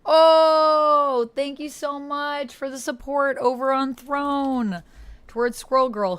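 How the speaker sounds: squealing with real delight at a gift; excited thanks. Real, not acted. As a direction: burst out thrilled at the support. Thanking a supporter on Throne.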